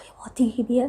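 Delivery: breathy whisper. Real, not acted. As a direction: whisper it, burning from spice. Reacting to spicy pepper.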